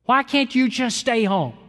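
high, slow, loud scorn; loud contempt. Retold or imitated. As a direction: sneer it loudly at the old couple. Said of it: "He said it loudly".

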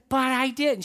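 mock-earnest child; serious little girl. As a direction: insist like a serious four-year-old. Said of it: "She was so serious".

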